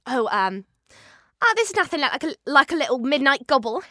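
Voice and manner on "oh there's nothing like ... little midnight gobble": playful film-character impression; Olivia Colman. Shown as a demonstration. Actor doing Olivia Colman from Hot Fuzz, cheeky character voice. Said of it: "Olivia Colman from Hot Fuzz".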